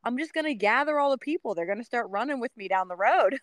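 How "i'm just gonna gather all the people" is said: higher playful excitement; Forrest Gump joke. Pretend. Runner joking about becoming Forrest Gump, playful. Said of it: "like Forrest Gump".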